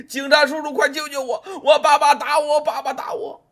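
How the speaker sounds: put-on high, pleading child's cry for help; a scared boy yelling for the police; boy running in, shouting for help; frightened child crying out. A narrator's reading. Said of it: "一边跑一边喊".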